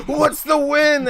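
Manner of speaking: high-pitched, loud demand; confused spectator. Acted. Bettor in the uproar asks the result, high and confused. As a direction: call out high from the crowd. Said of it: "There's a bunch of people".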